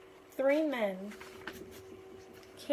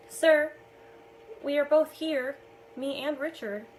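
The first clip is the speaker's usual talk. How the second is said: announcing arrival; 4 semitones higher, 7 dB louder than usual. A narrator's reading.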